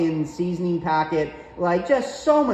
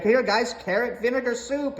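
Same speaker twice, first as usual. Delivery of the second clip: high, proud mock mom serving dinner; 8 semitones higher than usual. Son mimics mom serving soup to the family, high and proud.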